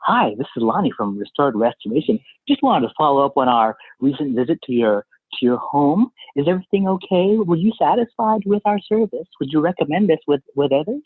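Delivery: upbeat, polite phone rep; customer service voice. Retold or imitated. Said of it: "That, that's Lonnie's customer service voice".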